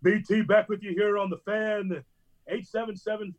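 lightly voiced hype radio intro; a hint of a sports host barking into the mic; radio host yell. Host on air drowning out his neighbour, mild mock yell. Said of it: "he would just yell into the mic".

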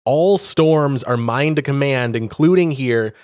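slow, weighty declaration of power; booming Thor proclamation. Retold or imitated. Thor telling the giants he commands storms, slow and weighty. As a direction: announce it like a god. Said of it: "And he's like".

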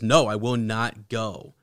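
firm refusal. Acted. Character refuses in story read aloud.

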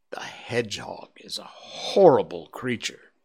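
hushed, spooky whisper; whispered warning. Acted. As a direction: whisper it like a scary secret. Child warns of hedgehog, whispered.

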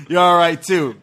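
breaking into giggles; joking, laughing paraphrase. Pretend. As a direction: toss off a token compliment through laughter. Joking paraphrase while both laugh.

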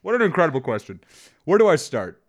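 over-the-top game-show excitement; mock enthusiasm. Mock enthusiastic reply to question.

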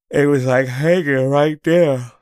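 strained, loud, drawn out; showing how he choked on his swollen throat; mock choking. Mock choking strain, slowed.

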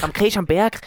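lilting put-on Tyrolean; Tyrolean accent. Host riffing on mountain food, Tyrolean accent. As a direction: ham up the Tyrolean dialect. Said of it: "mach mal das Outro auf Tirolerisch".

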